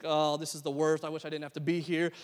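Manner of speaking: subdued, mopey grumble; mild retold sulk; moping. Player losing at halftime, moping. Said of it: "I went from moping".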